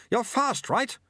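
high, effortful urging; gasping. A narrator's reading. Sweeper encourages apprentice while running, gasping. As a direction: urge him on as if winded. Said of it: "gasped the sweeper".

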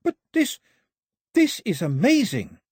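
very high, loud amazement; amazed calling. A narrator's reading. Daphne calling to Mao about her find, amazed. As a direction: call out in high-pitched wonder. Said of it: "Daphne called back".

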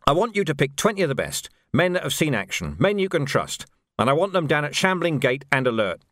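commander giving orders. Acted. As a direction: issue orders to a sergeant. Vimes gives orders.

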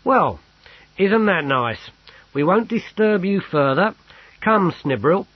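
high, loud show of politeness; loud and distinct. A narrator's reading. Sergeant hurries Snibrill away from clerk, loudly and distinctly. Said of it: "he said loudly and distinctly".

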